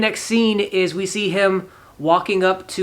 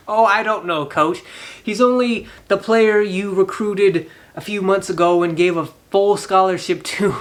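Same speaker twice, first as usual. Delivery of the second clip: drip with sarcasm at the coach; sarcastic; 3 semitones higher than usual. Real, not acted. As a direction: narrator mocking the coach for forgetting his own recruit, sarcastic. Speaker mocks the clueless coach.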